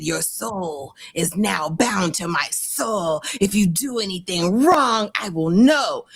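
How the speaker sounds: a hint of a sinister spell; lightly voiced ominous vow. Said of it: "and he said".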